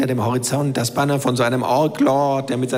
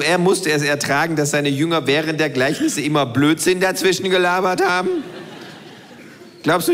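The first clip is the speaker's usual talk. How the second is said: lightly voiced cheeky kangaroo, a touch higher; the know-it-all kangaroo lecturing; 3 semitones higher than usual. Kangaroo's long Jesus parable.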